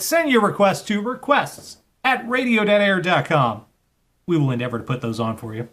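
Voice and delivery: upbeat on-air back-announce; radio DJ read. Acted. Radio host announcing songs and requests to listeners. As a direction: sell the playlist like a late-night radio host.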